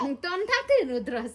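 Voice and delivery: cracking up mid-sentence; laughing shout. Real, not acted.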